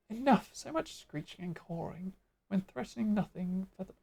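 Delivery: lightly voiced bird creature; a touch of screechy bird-beast; Ixali bird voice. Ixali cutting off the screeching, bird voice. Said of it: "keep doing the Ixali voice".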